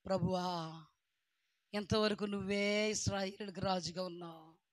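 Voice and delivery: a touch of sorrow, pleading with God; mild tearful plea to the Lord; understated grieving prayer; Samuel's lament. Acted. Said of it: "సమూయేలు ఏడుస్తున్నాడు".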